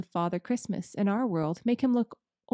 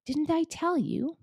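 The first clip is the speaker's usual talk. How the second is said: high, slow gleeful cry; crowing he was right; excited; 9 semitones higher, slower than usual. Acted. Mister Beaver to the children, gleeful cry. Beaver exults about Christmas.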